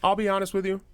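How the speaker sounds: hammed-up confessing patient; mock patient. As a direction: play the sheepish patient.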